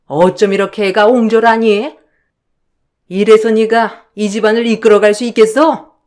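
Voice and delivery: mother-in-law berating the daughter-in-law who stayed out, furious scolding. Acted. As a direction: lay into the daughter-in-law with contempt. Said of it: "노발대발 난리를 치더라고요".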